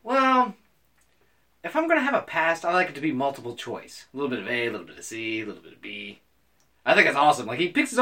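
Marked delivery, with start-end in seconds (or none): 0.0-6.2 Joker. Retold or imitated. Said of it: "somebody asking the Joker".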